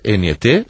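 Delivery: letter by letter: N E T; spelling it out. Shown as a demonstration. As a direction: spell out N E T one letter at a time.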